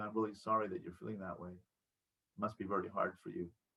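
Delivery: very quiet, soft, empathetic voice of emotional intimacy. Demonstrating the 'level one' voice, an empathetic voice. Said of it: "Level one voice is".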